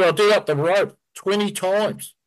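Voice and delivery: high, slow, disbelieving; rattled. Retold or imitated. Friend telling Brett he tied the rope twenty times, high and slow in disbelief. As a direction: spell it out, still rattled.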